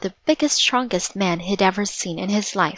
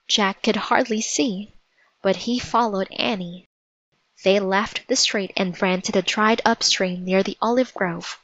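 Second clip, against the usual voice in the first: plain reading voice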